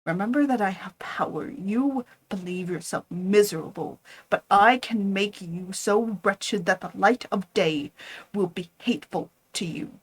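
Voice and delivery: loud, firm refusal; defiant anger. Acted. Frankenstein defies his creature, loud and angry. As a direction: throw the commands at him.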